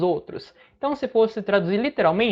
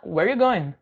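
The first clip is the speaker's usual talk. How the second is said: "Where you going" run together with question tune; casual question intonation; slower than usual. Shown as a demonstration. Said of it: "usando um pouquinho de entonação". ("Where you going" em fala corrida, com entonação de pergunta)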